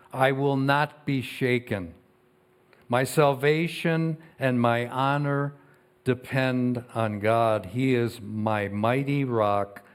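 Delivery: measured, slow reading of the psalm; scripture reading. Acted. Pastor reading Psalm sixty-two to the congregation, measured and solemn. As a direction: read each line like a proclamation.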